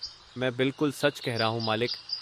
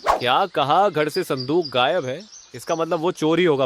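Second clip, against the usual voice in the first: louder, startled disbelief; shocked surprise; 4 semitones higher, 5 dB louder than usual. Acted. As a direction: react as if you can't believe it. Neighbour hears of the theft. (चौंककर हैरानी से)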